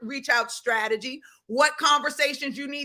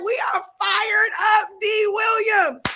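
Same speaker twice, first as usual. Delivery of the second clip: excited; 7 semitones higher, 3 dB louder than usual. Retold or imitated. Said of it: "She said".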